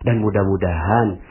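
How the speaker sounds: gentle pious words. Shown as a demonstration. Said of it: "Ngomongnya gini".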